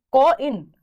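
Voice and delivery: "कॉ इन" split into its two vowel sounds; gliding diphthong. Shown as a demonstration. Teacher showing students where the diphthong starts, "कॉ इन" sounded out in two parts. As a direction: say "कॉ इन" in parts, sliding from the first vowel into the second. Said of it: "एक vowel से शुरू होकर दूसरी की तरफ".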